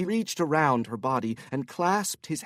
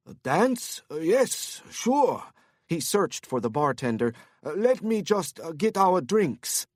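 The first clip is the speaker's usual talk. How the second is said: much higher, hesitant and thrown; flustered Korean businessman; 3 semitones higher than usual. Acted. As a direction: caught off guard, stammering. Korean man character voice.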